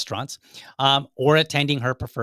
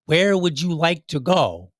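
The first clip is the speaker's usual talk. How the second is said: slow, deliberate question; 4 semitones higher, 3 dB louder, slower than usual. Acted. Husband asking wife where to eat, slow and deliberate. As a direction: ask it slowly, word by word, pitched up. Models the question she should answer.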